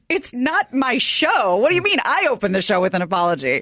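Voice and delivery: indignant disbelief. Retold or imitated. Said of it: "And Norm goes".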